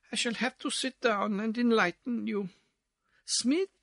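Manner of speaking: put-on lightly accented ballroom chatterbox; dancing society lady. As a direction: chatter on while twirling, running out of breath. Missus Pirouette chats while dancing.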